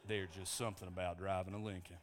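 low Lincoln-ad actor imitation; Matthew McConaughey. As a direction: do a rough car-commercial celebrity accent. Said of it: "I can't do his accent".

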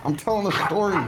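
high-pitched pet-talk voice; talking to a dog. Real, not acted. Streamer telling his dog he is mid-story, high pet-talk voice.

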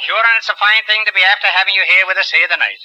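jokey stage-Irish accent; mock Irish brogue. Shown as a demonstration. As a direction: lay on a rusty Irish brogue for laughs. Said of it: "How's my brogue?".

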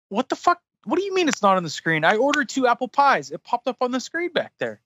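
mock outrage, pitch jumping up at the start; indignant retort. Customer disputing a missing apple pie order, indignant. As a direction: act out disbelief at being contradicted. Acted argument with drive-thru kid.

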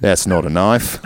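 put-on Aussie movie-quote accent; light bogan Australian; mock Australian accent. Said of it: "We sound like a couple bogans".

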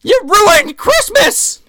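high, slow mock wail of blame; pissed-off Santa. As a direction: stretch out the accusation in hammed-up outrage. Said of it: "And Santa is fucking pissed".

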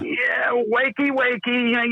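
teasing wake-up call. Retold or imitated. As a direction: coax a sleepy coworker out of bed. Phoning a late cohost awake.

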